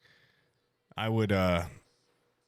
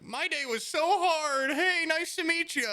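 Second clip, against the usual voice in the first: cheerful fake greeting. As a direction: greet the killer with a big smile. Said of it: "And I'm like".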